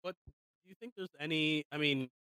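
faint, distant mic sound; speaking away from the microphone; too far from the mic. Real, not acted. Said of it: "now you are way too far from your microphone".

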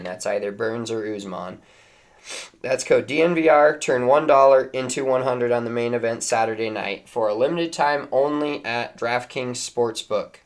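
brisk sponsor ad read. Acted. Reads sponsor ad.

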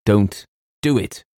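slow, emphatic protest; vehement plea. A narrator's reading. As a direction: forbid it with weight on each word. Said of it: "cried James with extraordinary vehemence".

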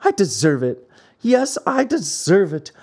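understated weak cry, rising on the repeat; weakly crying out. Acted. Chained puppet blames himself, mildly weak lament. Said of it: "cried out in a weak voice".

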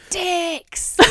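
put-on high, childlike "Dicks" with a falling end; child's mispronunciation. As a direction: imitate a toddler saying "Dicks". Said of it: "she'll be, literally be like".

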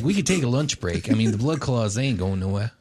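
a hint of a Bostonian accent; lightly Bostonian, casual character voice; slightly Bostonian accent. Game master voices a character suggesting a lunch break, slight Bostonian accent. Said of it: "slightly Bostonian accent".

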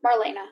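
Marlena said carefully, stress on "le"; correcting to "Marlena" with a long "lay"; corrected name. Real, not acted. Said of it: "Thank you".

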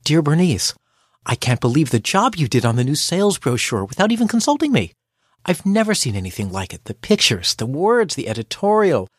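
letter read as honest praise; mean every compliment; genuinely admiring, gentle; sincere reading. Shown as a demonstration. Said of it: "Only I read it a little differently".

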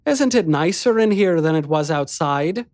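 high, playful coaxing, rising questions; gently teasing. Acted. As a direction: coax a smile from a sulky child. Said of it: "in a gently teasing tone".

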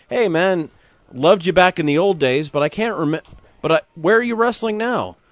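high, eager fan gushing; excited fan voice. Retold or imitated. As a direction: play a starstruck fan. Fan greeting wrestler at airport.

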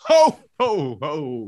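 belly-laugh like Santa Claus. Acted. Roasting players in a Santa voice, ho ho ho.

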